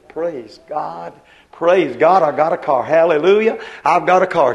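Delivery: lightly hammed-up rejoicing; mock praise. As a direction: shout hallelujah like a church member. Acts believer praising for car.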